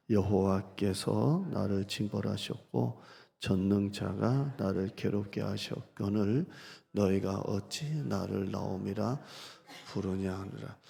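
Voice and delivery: slow, held reading of the lament; a slow, clinging plea to God. Shown as a demonstration. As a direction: dwell on each phrase, never letting go of God. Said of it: "제가 읽어드린 투를 여러분이 느낌이 오세요?".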